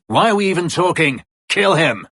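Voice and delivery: loud, high battle yell; furious shout. Acted. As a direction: bark the order to kill. Combat shout, fight breaking out.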